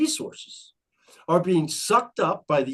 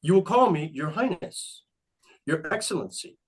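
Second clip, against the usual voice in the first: megalomaniac rant. Retold or imitated. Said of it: "I identify as King Ben of Conestoga".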